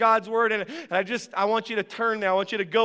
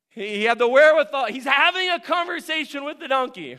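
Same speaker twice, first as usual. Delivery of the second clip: brighter, louder storytelling as the donkey talks; excited retelling; 5 semitones higher, 4 dB louder than usual. Real, not acted. Preacher to congregation, marveling and louder. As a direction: marvel at the talking donkey to the church.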